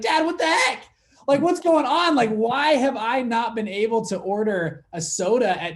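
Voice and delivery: high, loud disbelieving cry at dad; shocked outburst. Retold or imitated. Shocked son confronting dad.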